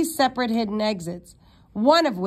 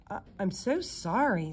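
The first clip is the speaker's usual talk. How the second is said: backpedaling; 7 dB quieter than usual. A narrator's reading. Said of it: "suddenly backpedaling".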